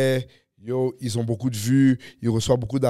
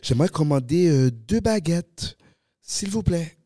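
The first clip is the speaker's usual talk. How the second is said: imitating a France French accent, a bit higher and hesitant; mock France French accent; 3 semitones higher than usual. Quebec comedian mocking his own France French accent while ordering baguettes. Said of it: "mon accent français est poche".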